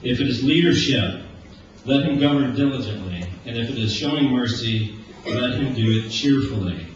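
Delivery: solemn scripture read to the congregation. Acted. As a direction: read the passage with weight. Reads Romans twelve aloud.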